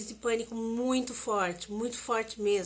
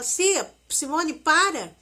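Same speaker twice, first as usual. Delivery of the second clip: imitating a friend's urgent, raised pleading; friend pleading loudly; 4 semitones higher, 4 dB louder than usual. Friend on the phone calming Simone in panic, urgent loud pleading. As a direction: replay her friend begging her to stop, louder. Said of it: "Ela começou a falar comigo".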